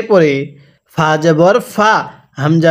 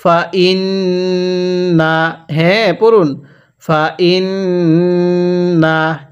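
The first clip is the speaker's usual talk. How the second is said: stretched syllables, measured Arabic reading; slow recitation; slower than usual. Shown as a demonstration. Teacher models the word slowly for learners to copy. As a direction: draw out ওয়া র ফা না evenly. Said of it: "আমার সাথে পড়ুন।".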